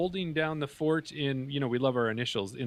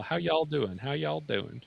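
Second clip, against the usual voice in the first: lightly imitated Southern "y'all"; playful Southern US greeting; Southern US accent; 2 semitones higher, slower than usual. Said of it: "They say "y'all".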